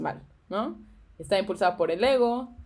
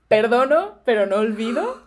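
grudging vow; 4 dB louder than usual. Acted. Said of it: "O mi favorita".

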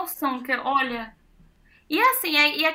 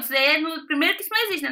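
ordinary talk, nothing marked

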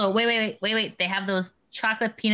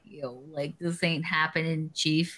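lightly voiced dude; 7 semitones lower, 6 dB quieter, slower than usual. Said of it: "he's like".

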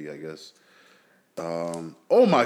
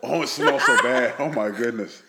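disgusted by smell. Real, not acted. Smelling the fish, laughing.

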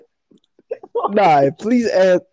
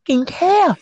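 higher-pitched, emphatic dismissal; exasperated scolding; 6 semitones higher than usual. Real, not acted. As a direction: shut him down, hitting every word. Scolding friend for interrupting.

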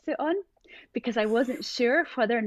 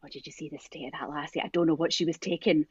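put-on old man; 4 semitones lower than usual. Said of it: "I heard this wee old man say".

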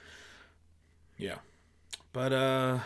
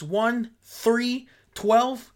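mock miscount; 6 semitones higher, 5 dB louder, much slower than usual.

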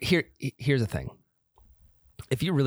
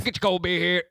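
stadium vendor hawking; 6 semitones higher than usual. Acted. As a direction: hawk it like a ballpark vendor. Vendor call at ballgame.

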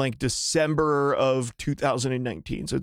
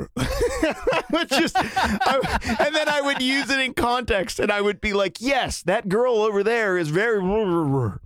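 mumbling nonsense sounds; 6 semitones higher than usual. Retold or imitated. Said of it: "whatever ridiculous mumbling noises".

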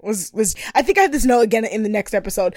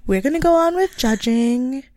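put-on baby voice. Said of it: "serious baby voice".

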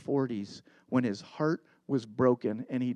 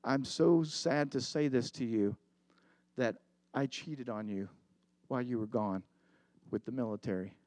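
softly, a mild hint of tears; quiet, understated crying voice; tearful confession; 3 semitones lower, 5 dB quieter than usual. Fiancée confessing to soldier, a touch of tearful quiet. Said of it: "just starts crying".

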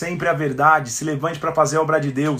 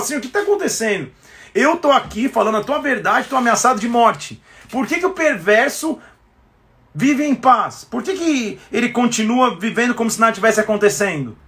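raised, anguished pleading; pleading lament; 5 semitones higher than usual. Acted. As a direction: cry out asking why.

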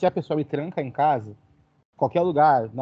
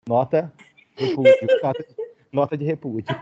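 laughing; 4 dB louder than usual. Real, not acted. Joking protest, laughing through.

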